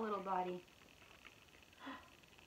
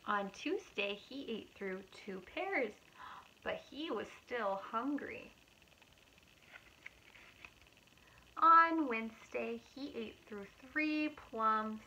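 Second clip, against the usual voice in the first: loud, slow day names, storybook lilt; reading to children; 3 dB louder, slower than usual. Acted. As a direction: read it aloud to little kids. Reading picture book aloud.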